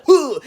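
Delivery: a short effortless grunt; mock the easy grunt. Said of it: "making noises like".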